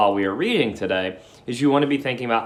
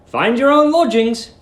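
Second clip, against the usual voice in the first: much higher, louder manager voice; boss's instruction; 12 semitones higher, 7 dB louder than usual. Acted. Mister Greensdale instructs Billy, high and commanding. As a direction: give the order like a busy boss. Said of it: "he had said".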